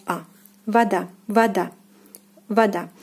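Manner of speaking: "a" as ah, then "vada" said va-DA; "vada" with O reduced to ah; unstressed O as a. Shown as a demonstration. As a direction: show "a", then "vada" stressed on the last syllable. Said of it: "O is pronounced as a".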